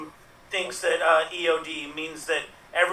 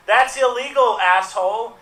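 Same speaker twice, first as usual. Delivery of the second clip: raised voice, imitating mom yelling; mock yell; 4 semitones higher, 4 dB louder than usual. Mom yelling out the car window while driving, mock yell. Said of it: "roll down the window and yell".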